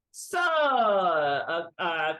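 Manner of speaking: slow, drawn-out mock French accent; hammed-up French general; bad French accent. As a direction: do a terrible French accent, slowly. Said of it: "bad French accent".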